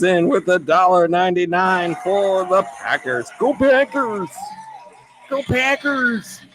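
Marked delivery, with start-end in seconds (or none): 3.4-6.4 cheer. Real, not acted. Cheering for Packers donation.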